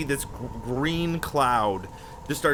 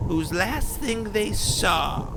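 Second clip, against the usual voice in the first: portentous storyteller; 2 semitones higher, 4 dB quieter than usual. Acted. Character tells of the orb's knowledge.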